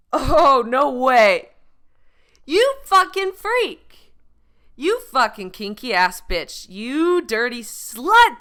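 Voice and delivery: hammed-up scandalized cheer; mock shocked. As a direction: tease the crowd with scandalized delight. Mock shock at audience answers.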